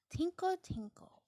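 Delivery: high tinkling chime; chiming tinkle. A narrator's reading. Narrator imitates the tooth fairy's tinkling arrival, bright and high.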